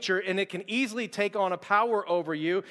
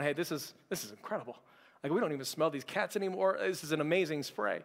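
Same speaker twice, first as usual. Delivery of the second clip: hushed amazement; 3 semitones lower, 5 dB quieter than usual. Retold or imitated. Team amazed at the spray.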